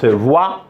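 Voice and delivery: "voix" said as vwa, with a w glide; sounded as "wa". Shown as a demonstration. Teacher showing students how it is pronounced, "voix" as vwa. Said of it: "on la prononce".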